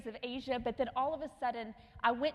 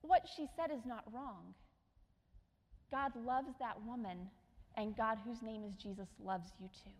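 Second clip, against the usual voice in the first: calm; 2 semitones lower, 4 dB quieter than usual. Retold or imitated. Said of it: "he's very calm".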